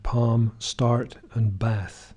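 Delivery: General American "palm", "start" with a pronounced R, "bath" with a flat a; American accent. Shown as a demonstration. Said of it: "Americans would have".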